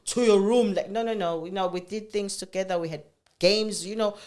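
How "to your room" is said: mock strict mother. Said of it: "it wasn't like that".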